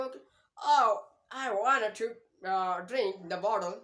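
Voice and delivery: British accent, loud "Oh" and slow "bottle" with a d-like t; British take on "bottle", the t softened to a d sound. Shown as a demonstration. Teacher shows how the British say bottle, British accent. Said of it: "British वाले करेंगे वो किस तरह करेंगे".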